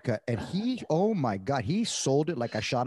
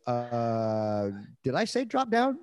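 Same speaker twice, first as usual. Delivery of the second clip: mock surprise; much slower than usual. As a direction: feign shock at the partner. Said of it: "and I go".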